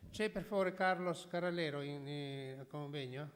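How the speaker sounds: loud call across the room, asking for someone; projecting a question to the audience; calling out to the hall. Real, not acted. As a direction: raise your voice to reach the back of the hall. Chair calls into the hall.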